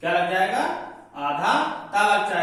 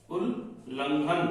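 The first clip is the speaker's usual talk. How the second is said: उल्लंघन stretched slowly, softer; drawn out; 2 semitones lower, 6 dB quieter, much slower than usual. Shown as a demonstration. Teacher slowly stretching उल्लंघन for students. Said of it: "यहाँ पे आधा ला आया है".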